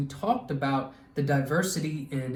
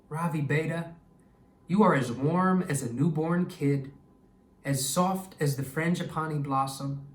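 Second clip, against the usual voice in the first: tender grandfather. Acted. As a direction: speak to him like a loving grandfather tucking him in. Grandfather comforts Ravi.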